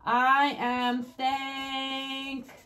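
each word drawn out very slowly; slow dictation. Shown as a demonstration. Teacher writing the bad example for kids, slow. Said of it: "write the same sentence in a way that I don't like".

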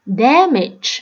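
"damage" stressed on DAM; first-syllable stress. Shown as a demonstration. Teacher showing word stress to students, first-syllable stress. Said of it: "âm thứ nhất luôn".

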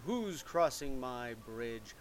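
troll voice. Acted. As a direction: stretch out the opening threat. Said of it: "The same troll came up and said".

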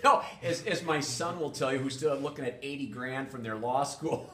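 high, loud reply through laughter; real laughter running into the words; amused laughing. Real, not acted. Guest laughs at host's joke.

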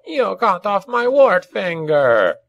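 high, drawn-out goblin yell; aggrieved, agonised goblin shaman; outraged yell. A narrator's reading. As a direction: wail the accusation in a high goblin voice. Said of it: "he yelled".

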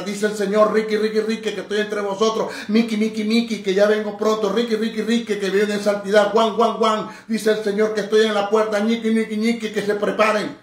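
mimicking a babbling sister prophesying; mock fake prophecy. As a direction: parody a phony prophet. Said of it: "tampoco es el jueguito".

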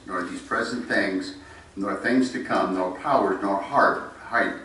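fervent sermon recitation, swelling on each nor; preaching scripture. Acted. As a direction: proclaim the passage to the congregation. Recites Romans passage with force.

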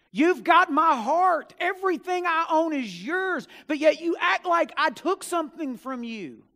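pleading father. A narrator's reading. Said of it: "his father looked at him and says".

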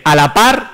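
"A la par" con la "A" marcada y fuerte; acento en la A. Retold or imitated. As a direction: read "A la par" aloud, punching the "A" as if wrongly accented. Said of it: "con acento ahí en la A". («A la par» recalcando la «A»)

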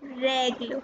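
"règle" with an open eh, REH-gluh; careful French "règle", open first vowel; accent grave. Shown as a demonstration. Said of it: "it was accent grave".

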